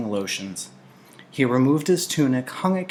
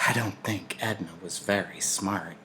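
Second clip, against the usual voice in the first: softer, secretive aside; confiding; 2 semitones lower, 7 dB quieter than usual. Acted. Old Larissa confides a secret to Jonas, softly. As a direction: lean in and share a secret. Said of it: "Then she confided".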